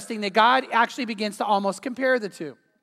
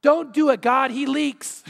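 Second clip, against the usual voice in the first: raised mock shout, slowing at the end; retold heckling yell; 3 semitones higher, 3 dB louder, slower than usual. Congregant interrupts the kneeling man's prayer, comic yell. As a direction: imitate someone yelling a warning to God. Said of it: "someone yells out".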